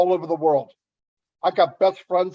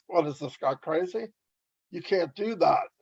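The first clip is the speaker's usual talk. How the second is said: hushed mock aside, much softer; imitated under-breath whisper; 7 dB quieter than usual. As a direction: mimic sceptics muttering under their breath. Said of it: "kind of whisper under their breath".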